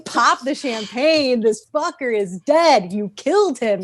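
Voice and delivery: celebratory. Real, not acted. Celebrating the abuser's death.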